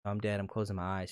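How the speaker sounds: mock dying. An overdone movie death scene acted out, mock dying. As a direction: fade out as if hamming up a death. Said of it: "super overly done emotional where she's like".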